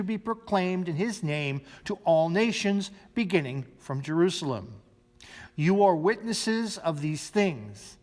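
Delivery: measured liturgical reading of the gospel; formal reading of the gospel passage; scripture reading. Acted. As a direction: read the lesson to the congregation. Reads the gospel lesson aloud.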